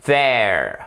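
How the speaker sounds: "There" with tongue on the upper teeth; hard TH. Shown as a demonstration. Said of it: "deux sortes de T H". (TH dur sur "There")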